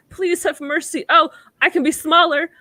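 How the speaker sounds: high, begging little voice; plead, make yourself sound tiny. Retold or imitated. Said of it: "It's like".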